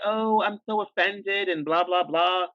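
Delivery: slow, put-on wounded tone; mimicking a coworker's fake offense; mock offended. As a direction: parody someone playing the victim. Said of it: "acting all like".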